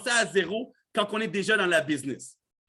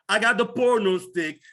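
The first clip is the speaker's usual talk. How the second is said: laughing; 4 dB louder than usual. Real, not acted. Laughing at own mispronunciation.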